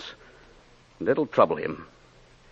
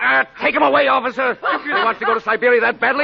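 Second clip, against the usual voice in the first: exasperated dismissal; 3 dB louder, faster than usual. Acted. Inspector dismisses confessor.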